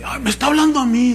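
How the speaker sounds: quick, excited gasp of a flattered viewer; gullible believer. Retold or imitated. Preacher imitating a viewer who thinks she's chosen, excited. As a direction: act thrilled that he means you. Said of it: "Y luego se hace así".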